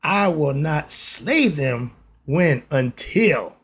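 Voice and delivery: slow, weighty reading of scripture. Acted. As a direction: read the king's words slowly and gravely. Reads scripture slowly.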